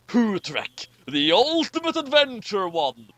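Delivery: booming movie-trailer title read; epic title announcement. Shown as a demonstration. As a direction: announce it like a blockbuster. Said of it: "a really epic way of saying the title".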